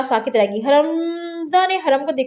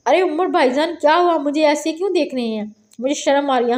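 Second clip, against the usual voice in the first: mock shy. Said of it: "शर्माने की acting करते हुए कहा".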